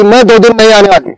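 flat, curt declaration of absence; just tell her you won't come; a maid bluntly telling her employer she won't come; blunt announcement. Retold or imitated. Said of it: "वो बोलेगी".

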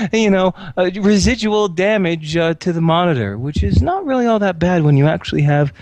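loud, rambling techie; nervous tech ramble. Acted. August lecturing Mila about his computer, nervous. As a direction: babble specs to cover nerves.

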